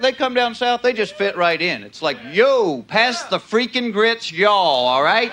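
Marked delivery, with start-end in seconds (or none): 2.3-5.3 hammed-up New Yorker trying Southern talk; imitated New York swagger; New York accent. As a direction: punch it out like a mock New Yorker. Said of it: "it's like people from New York".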